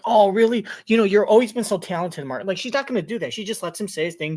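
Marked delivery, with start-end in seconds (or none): 0.0-2.5 fake gushing. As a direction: gush it falsely like a fan. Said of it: "I'm gonna be like".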